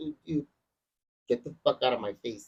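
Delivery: ordinary delivery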